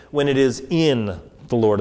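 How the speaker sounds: "in" held, then a short pause; stress on in. Shown as a demonstration. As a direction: lean on "in" and pause after it. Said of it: "I wanna emphasize the word".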